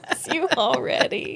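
mock deep man's voice, breaking into laughter; laughing deep voice. Friend asked her to bring back her low voice, laughing through it. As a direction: giggle through a hammed-up low guy voice. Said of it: "Bring it back".

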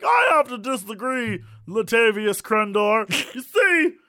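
high, slow, shouting pundit; sportscaster voice. Pretend. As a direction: bellow the pick like a TV pundit. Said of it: "you'd be like".

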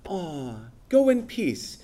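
airy, high, hollow well-wishing; mock breezy dismissal. Preacher mocking a believer who brushes off the needy, sing-song. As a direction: brush them off with a sweet high voice. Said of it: "one of you says to them".

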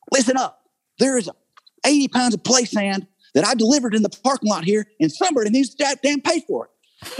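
high-pitched, hammed-up redneck rant; weird redneck delivery guy. Delivery guy pestering a casting director in her office, weird redneck. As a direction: harass them as a comic redneck delivery guy. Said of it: "like this weird redneck delivery guy".

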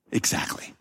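"Exactly." breathed in a whisper. Shown as a demonstration.

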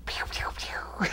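unvoiced mock gunfire; whispered pew-pew noises. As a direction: imitate little gunshots under the breath. Imitates gunshot noises, whispered.

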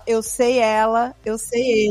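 put-on "Eu sei ela" said slowly, like a kid translating from English; mock a child's anglicised Portuguese, "sei" drawn out; slow, word-by-word "eu sei ele" like a translated phrase; imitating foreign-accented Portuguese. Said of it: "ela falava".

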